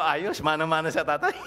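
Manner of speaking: said through a proud chuckle; laughing proudly. Retold or imitated. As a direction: laugh while praising the boy. Proud godfather quoting himself, laughing.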